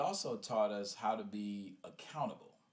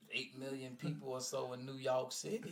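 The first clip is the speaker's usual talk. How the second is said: lightly voiced higher grandma; amused retelling in grandma's voice; grandmother; 4 semitones higher than usual. Grandmother scolding her grandson about his choice, lightly imitated grandma. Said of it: "she said".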